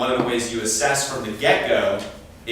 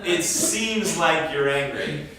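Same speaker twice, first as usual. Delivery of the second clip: gentle observation; 5 semitones higher, slower than usual. Shown as a demonstration. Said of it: "as opposed to".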